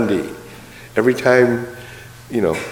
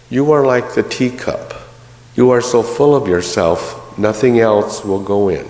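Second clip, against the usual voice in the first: quietly. Acted. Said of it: "the priest looks up quietly and says".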